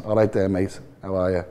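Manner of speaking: Liverpool Scouse, through the nose; nasal Scouse accent. Shown as a demonstration. Owner demonstrating Liverpool speech for interviewer, nasal Scouse accent. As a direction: greet a mate in nasally Scouse. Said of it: "it's a very nasally sort of accent".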